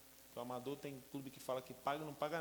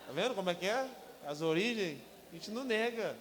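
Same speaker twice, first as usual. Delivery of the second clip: fervent testimony; 6 semitones higher, 7 dB louder than usual. Real, not acted. Preaching about poor origins.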